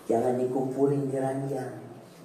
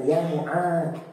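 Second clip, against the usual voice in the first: tender declaration; 5 semitones higher, much slower than usual. Retold or imitated. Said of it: "sambil mengatakan".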